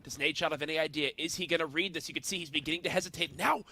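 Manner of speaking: caster call building to a screaming peak; esports caster. Pretend. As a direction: hype announcer erupting into a shout. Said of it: "You guys mind if I try something here".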